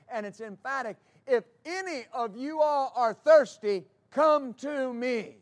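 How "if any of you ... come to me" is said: loud, higher preacher's cry, the last words slow. Acted. Jesus calls out to the rejoicing crowd, loud cry. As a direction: call it out to the whole crowd. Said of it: "He, he is crying with a loud voice".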